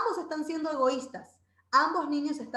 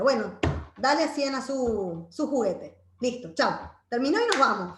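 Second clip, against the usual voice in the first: lightly voiced mom, louder; mom's quick verdict; 7 dB louder than usual. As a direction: hand down the ruling loudly, like a mom closing the case. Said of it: "Clásico, la mamá dice así".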